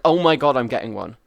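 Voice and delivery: loud mock hype; mock excitement. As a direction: gush like an eager buyer. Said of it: "everyone will be like".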